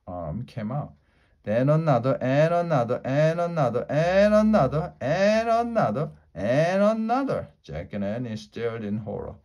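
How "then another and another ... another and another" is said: each "another" higher and louder, rising to a near shout; mounting dread, ending loud and high; building alarm. A narrator's reading. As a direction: pile on the panic with every arm. Arms keep coming, building alarm.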